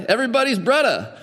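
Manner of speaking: quick, playful Hawaiian pidgin; a hint of Hawaiian island accent. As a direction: lightly imitate a Hawaiian local. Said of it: "picking up the accent of how people talk".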